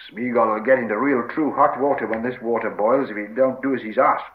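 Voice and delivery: mild irritated growl; growled threat. Acted. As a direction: threaten in a gruff hobbit voice. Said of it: "growled Sam".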